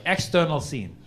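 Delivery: loud, slow mock Russian-accented narration, laughing; loud broken-English Russian narrator, laughing; mock Putin screenplay. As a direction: read a screenplay as a hammy Russian. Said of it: "He's like".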